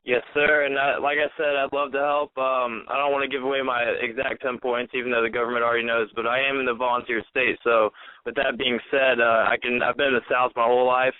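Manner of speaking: stuffy nose from a cold; nasal voice. Real, not acted. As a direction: talk through a blocked, nasal nose. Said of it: "Sorry about the nasally voice tonight".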